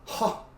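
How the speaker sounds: loud "Ha!" then staccato chuckle; mock scoffing laugh. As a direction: imitate an old master's dismissive laugh. Acting the grandmaster's scornful reply.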